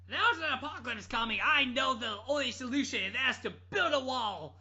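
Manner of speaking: can't keep a straight face doing the doom voice; laughing mock prophet. Retelling the Trump clip, laughing mock doom. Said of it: "a guy named Trump was like".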